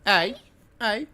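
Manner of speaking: high, loud excited "hey, hey". Real, not acted. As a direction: call out at the screen. Excited call at screen.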